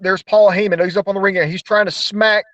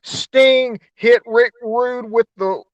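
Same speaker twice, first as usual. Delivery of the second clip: referee ruling; 4 semitones higher, slower than usual. Retold or imitated. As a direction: play the ref waving it off. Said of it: "another referee comes in and goes".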